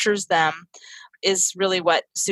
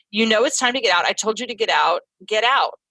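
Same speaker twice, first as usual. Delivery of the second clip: stern non-seen version. Shown as a demonstration. Mother ordering son out of the tub, firm and impatient. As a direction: bark the order without empathy. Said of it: "the non-seen version of that is".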